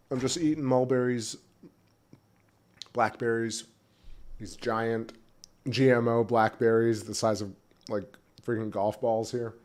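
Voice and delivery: chewing while talking; talking through a mouthful of berries; mouth full. Real, not acted. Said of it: "sorry, I'm chewing in your ear".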